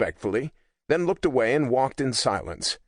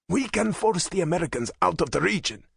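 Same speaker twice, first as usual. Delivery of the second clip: harsh, higher-pitched insistence; 8 semitones higher than usual. A narrator's reading. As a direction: say it with hard edges. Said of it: "with a distinct harshness in his voice".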